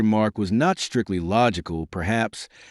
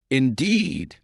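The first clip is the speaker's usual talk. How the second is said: higher-pitched, assured "indeed"; more confident; 5 semitones higher than usual. A narrator's reading. Princess answering the Baron's introduction, more confident. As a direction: lift it with regained confidence. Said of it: "in a more confident voice".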